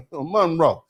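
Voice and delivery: "Monroe" with heavy first syllable; Monroe local style. Shown as a demonstration. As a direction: lean on the Mon in "Monroe". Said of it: "That's how people from Monroe say Monroe".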